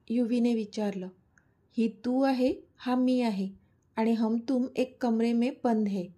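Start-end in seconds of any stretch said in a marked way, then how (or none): 1.8-6.0 a light hammed-up filmy line, half in Hindi; teasing his fiancée with a mild filmy flourish; dramatic filmy tone. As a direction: play it like a mock movie hero, lightly. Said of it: "आदी नाटकी सुरात बोलला".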